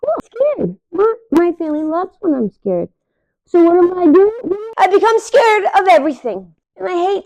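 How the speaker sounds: high, hammed-up frightened pup; mock scared dog voice. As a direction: play the dog, lightly fearful. Voicing the dog's thoughts.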